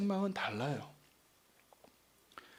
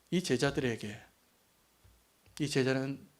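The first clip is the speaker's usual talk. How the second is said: ordinary delivery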